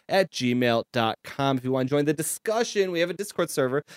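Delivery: brisk podcast outro read. Acted. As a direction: read the sign-off like an announcer.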